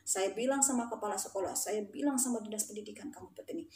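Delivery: low-volume, stern telling-off; hushed warning. Retold or imitated. Teacher warning students in class, hushed warning. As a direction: warn them under the breath.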